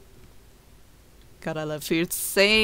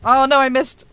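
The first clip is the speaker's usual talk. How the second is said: real dismay; 6 semitones higher, 10 dB louder than usual. Real, not acted. Misses attack in game.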